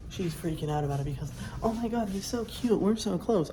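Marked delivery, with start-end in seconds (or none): 1.6-3.5 higher, louder lovestruck squeal of words; mock gushing. Viewer mimics the anime girl freaking out over her crush, mock gushing. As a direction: imitate a smitten girl freaking out.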